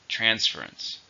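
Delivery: "Transference" stressed on TRANS; stress on first syllable. Shown as a demonstration. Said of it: "Stress on the first".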